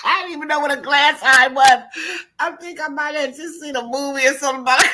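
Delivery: loud, high, laughing speech; real laughter, loud and high; laughing while talking. Real, not acted. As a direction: talk through the laughter.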